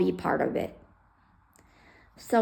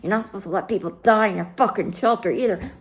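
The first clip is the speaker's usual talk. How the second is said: angry retort; 5 dB louder, faster than usual. Retold or imitated. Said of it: "I'm like".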